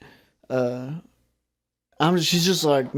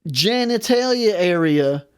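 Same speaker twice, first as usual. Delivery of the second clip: slow, drawn-out disbelief, rising higher; mock incredulous; 6 semitones higher, slower than usual. Clerk to man with ribeye in pants, incredulous. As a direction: stretch out each absurd detail in disbelief.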